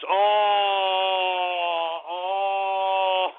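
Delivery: drawn-out "oh" of disapproval; groaning at a bad joke; long drawn-out groan. Real, not acted. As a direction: hold one long, dismayed "oh". Reacting to an offensive shout-out name.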